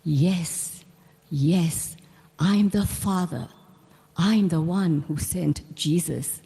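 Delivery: a hint of a tender guru reassuring her; gentle, loving. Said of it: "very lovingly and gently said".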